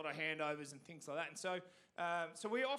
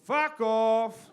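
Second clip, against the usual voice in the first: put-on toddler's yell; 4 semitones higher, 16 dB louder than usual. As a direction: blurt it out like a small kid at a funeral. Toddler yelling at the funeral.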